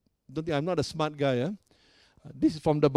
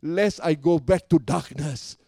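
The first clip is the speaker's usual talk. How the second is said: heart's cry prayer. Acted. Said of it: "my heart's cry is".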